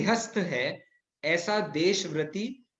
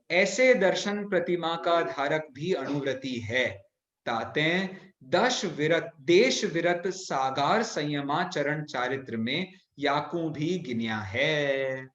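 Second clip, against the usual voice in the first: measured, chanting read of verse; slow scripture recitation. Acted. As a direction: read the old text slowly, deliberately. Reciting scripture text slowly.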